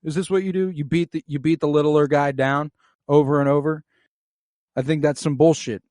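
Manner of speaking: indignant challenge. Retold or imitated. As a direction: confront the bully head-on. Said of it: "and he's like".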